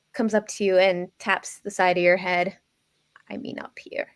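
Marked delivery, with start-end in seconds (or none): 3.3-4.1 put-on old lady voice. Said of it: "my old lady voice".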